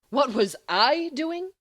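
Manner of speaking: loud, slow, indignant retort; snapping back. Acted. Remus snapping back at Sirius, loud and slow. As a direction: throw the question back, stung. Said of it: "Remus snaps".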